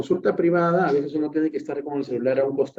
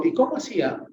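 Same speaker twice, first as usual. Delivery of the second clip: a plain, uninterested "¿Y cómo hacía?"; the way a therapist should not ask "¿Y cómo hacía?"; offhand question; 7 semitones higher, faster than usual. Shown as a demonstration. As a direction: toss off "¿Y cómo hacía?" without real interest. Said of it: "Yo no le digo".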